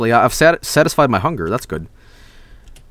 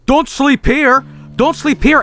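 frantic yell; 11 semitones higher than usual. Real, not acted. Yelling at cat in game.

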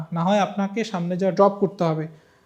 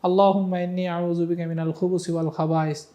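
recited dua. Shown as a demonstration. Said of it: "কী দোয়া?".

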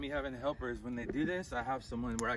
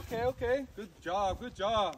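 squeaky praising a dog; 10 semitones higher, 8 dB louder than usual. Real, not acted. Praising returning bird.

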